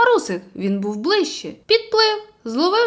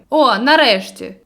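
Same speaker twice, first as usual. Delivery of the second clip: relieved exclamation; 6 dB louder than usual. Acted. Friend wakes up.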